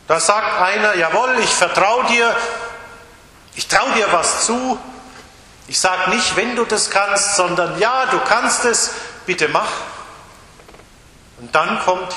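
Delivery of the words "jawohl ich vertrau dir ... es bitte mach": eager trust. Acted. Voicing a trusting believer.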